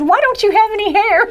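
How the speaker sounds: put-on high-pitched small child's question; imitated little boy. Little boy asks bald woman about her hair, high imitated child voice. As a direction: ask it high, like a curious preschooler.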